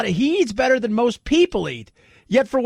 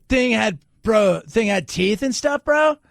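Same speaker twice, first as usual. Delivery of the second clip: slow, lightly voiced surfer dude; mock surfer bro; slower than usual. Radio host mimicking the bitten surfer, mock bro voice. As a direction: imitate a dim surfer bro, dragging it out.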